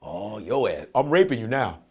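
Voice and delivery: joking creep whisper; mock creepy whisper. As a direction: hiss it like a sleazy creep. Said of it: "I'm like this".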